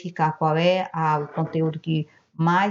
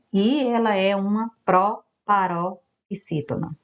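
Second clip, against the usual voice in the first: slow teacher emphasis; 3 semitones higher than usual. Shown as a demonstration. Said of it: "a sílaba tônica trem".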